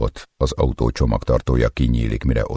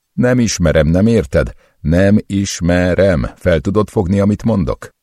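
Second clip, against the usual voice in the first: higher, louder furious pleading; desperate shouting; 8 semitones higher, 5 dB louder than usual. Acted. Captive shouts at torturer in desperate anger. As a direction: yell in frustration and panic.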